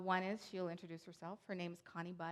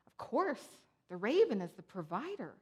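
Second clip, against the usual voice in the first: Randy, gracious explanation; 2 semitones higher, 4 dB louder than usual. Retold or imitated. Randy answers the suspicious woman's question, gracious and matter-of-fact. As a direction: imitate an easy, gracious explainer. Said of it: "the way Randy did it was so gracious".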